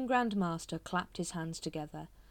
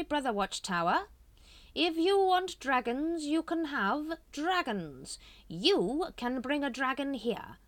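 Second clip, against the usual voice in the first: slow, raised, silky persuading; seductive tempter; 10 semitones higher, 5 dB louder, slower than usual. A narrator's reading. Grand Master tempting Watchtower, slow and silky. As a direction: dangle the offer slowly.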